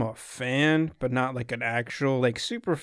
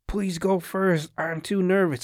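higher, drawn-out panicked plea; mock yell; 6 semitones higher than usual. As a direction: imitate a nervous guy's yelling without much volume. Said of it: "it starts yelling at this white girl".

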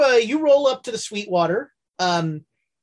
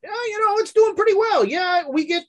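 higher barkeep voice; 10 semitones higher than usual. Acted. GM voices the bartender.

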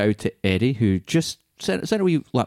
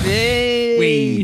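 excited; 10 semitones higher, 3 dB louder than usual. Real, not acted. Cheering the ten sell joke.

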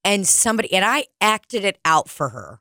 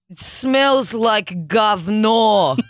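slow disgusted quote; 2 semitones higher, 3 dB louder, much slower than usual. Retold or imitated. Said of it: "And be like".

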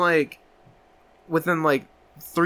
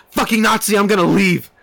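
loud, higher indignant outburst; acted outrage; 4 semitones higher, 4 dB louder than usual. Patient walking out on German therapist, acted outrage. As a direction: storm out in mock outrage. Acting patient's angry walkout.

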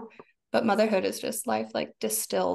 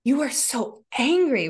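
marveling adoration. Retold or imitated. Mother marveling at her screaming son, hushed adoring. Inner adoration of raging child.

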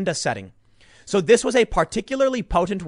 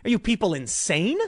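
bewildered outsider; 3 semitones higher than usual. Retold or imitated. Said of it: "people downstairs are going like".

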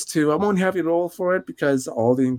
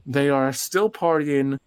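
game master narration. Acted. Game master sets the scene.

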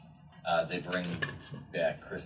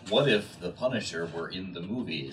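lightly hammed-up episode title, amused; mock title reading; 3 dB louder than usual. Friend joking about a What If episode, mock title reading. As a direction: pitch it as a joke title with a laugh.

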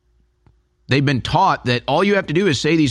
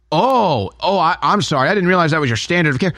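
sarcastic apology; 3 semitones higher than usual. Pretend.

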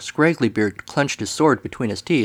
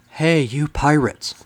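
calling out; 4 semitones higher, slower than usual. Acted. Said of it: "the serpent called".

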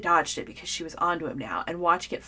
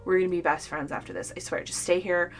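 tipsy excitement; 5 dB louder than usual. A narrator's reading. Tipsy excited offer of wine.

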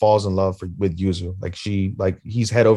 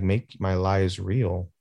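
slow, quiet realization; 3 semitones lower, 5 dB quieter, much slower than usual. Retold or imitated. Husband slowly takes in friend's advice.

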